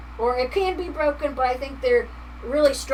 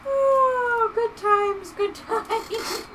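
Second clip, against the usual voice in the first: high, still laughing through words; 11 semitones higher, much slower than usual. Real, not acted. Streamer still laughing at chat's jokes. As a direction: gasp it out mid-laugh.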